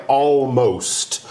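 ALMOST with a clearly sounded L. Shown as a demonstration. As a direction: say "almost" with the L pronounced. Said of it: "kind of a silent L".

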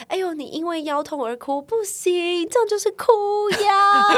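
high, loud teasing father voice; father teasing his crying child over back pain, high mocking voice; mocking dad.

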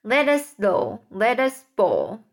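sing-song poem recitation; a touch of a showman centipede reciting his rhyme; recited comic verse. A narrator's reading. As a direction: read it with bouncy rhythm, relishing the monsters.

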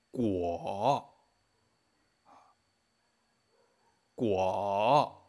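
果 alargado, grave, baja y vuelve a subir; tercer tono. Shown as a demonstration. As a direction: di 果 lento con el tono bajo. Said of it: "Tercer tono". (tercer tono grave en 果)

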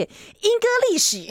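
"英歌历史" as four high Mandarin syllables; English in Chinese characters. Retold or imitated. Elder teaching a child English, "英歌历史" in plain Mandarin syllables. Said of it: "用就是注音或是国字来教你".

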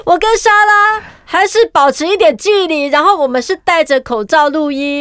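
talking through a mask; through a face mask. Real, not acted. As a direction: speak behind a face mask.

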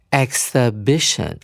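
exhibition as ek-suh-BI-shun, silent h; demonstrated pronunciation. Shown as a demonstration. Teacher models the noun form for students, careful pronunciation. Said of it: "所以我们会念成".

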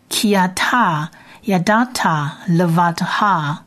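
ki ata yadata levatha read slowly, syllable by syllable; slow Hebrew reading. Shown as a demonstration. Teacher reads the verse to students, slow and careful. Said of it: "再一次".

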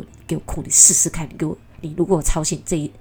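acted scolding threat, tripping over the words; stern challenge with a burst of volume; sterner mother. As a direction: mildly imitate a mother warning her crying child. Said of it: "那妈妈就更严厉说".

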